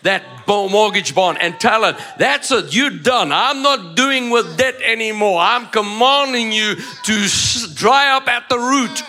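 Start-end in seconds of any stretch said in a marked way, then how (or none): 2.2-9.0 commanding declaration. Acted. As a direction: speak with authority over it. Commanding debt to dry up.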